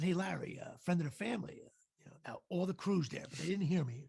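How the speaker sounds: mention it calmly, almost in passing. Retold or imitated. Actor quietly greets Larry as family friend, very calm. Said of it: "Very calm".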